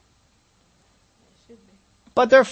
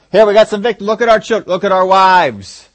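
mock victim complaint; 6 dB louder than usual. Mocking Israel playing the victim.

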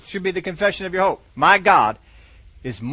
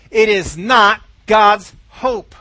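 forceful preaching; 3 semitones higher, 9 dB louder, much slower than usual. Real, not acted. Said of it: "preacher emphasis".

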